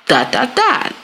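slow, spelling out each part; slow deliberate apology. Shown as a demonstration. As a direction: lay it out slowly. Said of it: "you would say".

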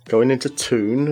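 "tune" said for town, Geordie style; Geordie pronunciation. Shown as a demonstration. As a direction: demonstrate Geordie "toon" with a long oo.

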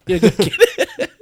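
very high squeaky praise. Pretend. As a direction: squeak it like a cartoon. Mock coach praise.

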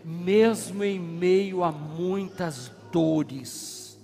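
very slow, each phrase stretched out; slow exhortation. Real, not acted. Preacher urging the church slowly to keep fighting. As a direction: lay it out slowly like a blessing.

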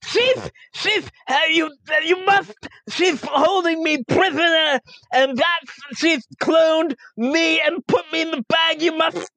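high, frantic pleading squeak; high squeaky voice. Acted. Player fakes a tiny voice.

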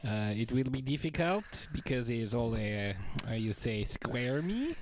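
put-on goofy French-Canadian accent, Borat-like; hammy French accent, halting English; Patrice Bergeron French accent. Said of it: "why does Patrice Bergeron sound like Borat?".

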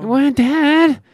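high, loud mock kid's retort; high-pitched mock impatience; exasperated kid. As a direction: answer Dad like a bothered child. Acting out kid answering parent.

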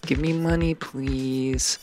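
high-pitched mock plea; put-on begging. Podcaster begging listeners to subscribe to the Patreon, put-on high plea. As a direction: plead in a silly high voice.

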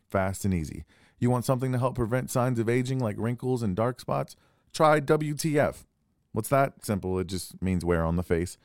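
smooth radio ad voice; ad read. Acted. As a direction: sell it like a radio spot. Reads a skincare ad.

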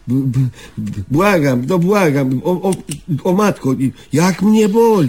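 stammering, pleading in panic; beg, tripping over the words in fear; frightened stammering. Acted. Terrified of nail clipping, stammering.

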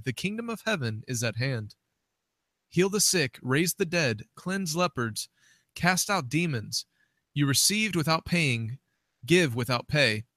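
measured phrases with lifted list items; scripture reading. Acted. Co-host reading Matthew ten to the minister, scripture reading. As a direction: read the Bible passage aloud in distinct phrases.

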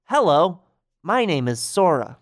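Sora. Acted. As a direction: introduce yourself to a small child. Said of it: "gets down on her height and says".

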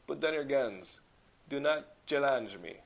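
lightly imitated Belgian accent, challenge said as shallenge; mild mock action-villain threat; Van Damme impression. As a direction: quote the villain with a hint of his accent. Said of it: "he says a phrase that".

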